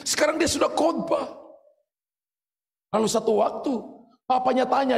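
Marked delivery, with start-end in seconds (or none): 0.1-1.5 excited news. Retold or imitated. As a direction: proclaim it like joyful gossip. People telling the father news. (kabar gembira, nada tinggi dan bersemangat)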